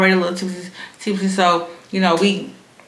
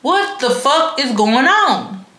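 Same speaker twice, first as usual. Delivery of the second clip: high, slowly drawn-out disbelief; bewildered outrage; stunned disbelief; 6 semitones higher, slower than usual. Retold or imitated. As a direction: say it like you can't believe it. Speaker bewildered at friend's switch.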